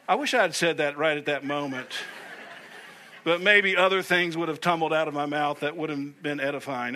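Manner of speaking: chuckling through it; real amused chuckle; laughing aside. Real, not acted. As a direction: laugh at yourself as you admit it. Laughing at himself.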